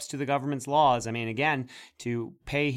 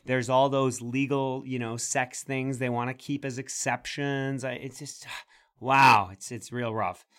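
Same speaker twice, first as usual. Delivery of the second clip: mock sympathy. Host pleading that nine words is hard work, mock sympathetic. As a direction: labour each excuse as if it were hard work. Sarcastic excuses for government inaction.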